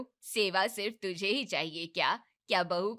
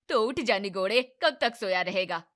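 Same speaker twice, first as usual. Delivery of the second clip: scolding call; 6 dB louder than usual. Acted. Mother scolding son to wake.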